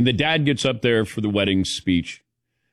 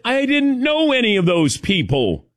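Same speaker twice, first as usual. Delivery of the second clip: retelling own reply; 11 semitones higher than usual. Retold or imitated. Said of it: "I said".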